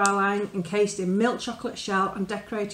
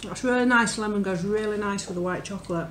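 tasting between words; talking while chewing. Real, not acted. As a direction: mouth partly full. Seen 0: Bit the chocolate earlier; lips pressed, cheek bulging, chewing at 2.9-4.2s.

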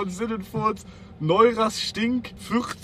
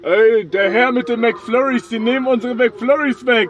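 megaphone announcement. Acted. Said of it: "mach mal mit Megafon".

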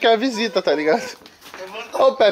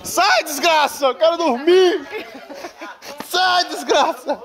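meme quote; 7 semitones higher, slower than usual. Retold or imitated. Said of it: "Tá fazendo meme".

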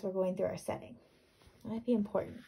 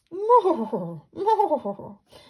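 high loud snickering laugh; horse snicker; 8 semitones higher, 9 dB louder than usual. Shown as a demonstration. Teacher imitating a horse's snickering sound. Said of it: "snickering type of sound".

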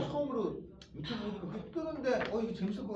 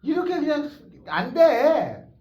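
frustrated shout; 9 semitones higher, 14 dB louder, slower than usual. Real, not acted. Teacher frustrated at the board.

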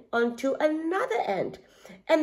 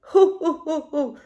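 hooting laugh, louder at the start; monkey laugh; 5 semitones higher, 6 dB louder than usual. A narrator's reading. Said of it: "laughed Monkey".

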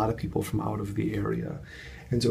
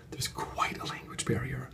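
much softer whispered understatement; whispered aside; 3 semitones higher, 9 dB quieter than usual. Real, not acted. Vlogger confiding to viewers, whispered. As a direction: drop to a dry confidential whisper. Dry aside about the guest.

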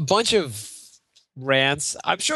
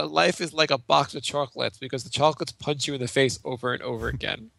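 Forrest Gump voice. Retold or imitated. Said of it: "my mom said".

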